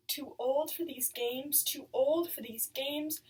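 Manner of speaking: slow, drawn-out voice of a friend in the head; Agnes's remembered voice. Acted. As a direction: repeat it slowly like a stuck refrain. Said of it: "It's Agnes's voice I hear, not my own".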